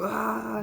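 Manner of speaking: small imitation of a racer's wail; imitated crash scream. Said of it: "hearing them scream when I'd hit the walls".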